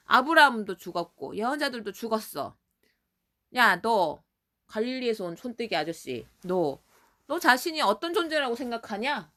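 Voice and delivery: mock belittling confrontation; acted blunt challenge. Pharisees questioning the bumpkin from Galilee, acted scornful challenge. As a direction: question him bluntly, as if he were nobody. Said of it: "막 대놓고 물었어".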